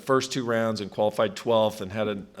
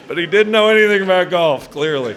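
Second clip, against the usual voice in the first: still laughing; 8 semitones higher, 11 dB louder than usual. Real, not acted. Winding down from laughing.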